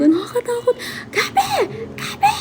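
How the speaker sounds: high mock call of Gabi, half-laughing; father calling. Father calling his daughter, a playful mock call. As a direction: call the name out like an angry dad, hammed up. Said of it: "paulit-ulit yung tatay ko talaga".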